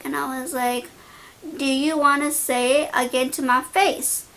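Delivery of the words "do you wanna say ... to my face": mildly raised voice, reenacting a confrontation; retold loud challenge. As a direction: challenge them, only a little louder. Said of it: "I said it very, very loud".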